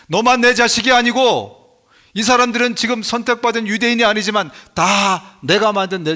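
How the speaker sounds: voicing God as a pleading father, rising to a cry on "자식"; God scolding. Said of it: "꾸짖습니다".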